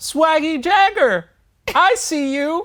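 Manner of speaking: very loud, very high, drawn-out shout. Retelling a greeting a Lyft driver shouted out the window: imitating a driver shouting. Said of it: "the Lyft driver shouted out the window at me".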